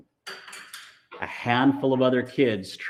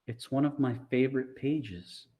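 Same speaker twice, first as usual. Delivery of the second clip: misty-eyed; 3 semitones higher, 5 dB quieter than usual. Acted. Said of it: "turned misty eyes".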